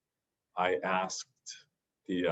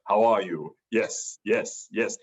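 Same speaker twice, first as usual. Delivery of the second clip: imitating movie-soundboard snippets; lightly voiced action-star catchphrases; Arnold Schwarzenegger soundboard; 4 dB louder, slower than usual. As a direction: do a chopped-up action-star prank call. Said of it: "there was an Arnold Schwarzenegger prank call".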